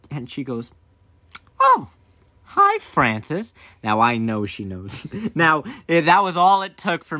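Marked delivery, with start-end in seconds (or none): 1.6-3.5 high-pitched oh, drawn-out hi; mock-innocent mom greeting, stretched out; knowing greeting. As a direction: greet them like you already know. Mom greeting, already knows.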